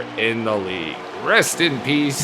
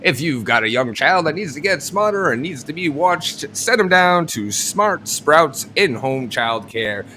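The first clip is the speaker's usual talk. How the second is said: ad read. Acted. Sponsor ad read.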